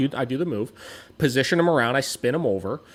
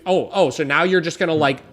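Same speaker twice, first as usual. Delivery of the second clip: exasperated rant; 3 semitones higher, 6 dB louder than usual. Retold or imitated. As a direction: vent at the assistant's bad idea. Ranting at the assistant's plan.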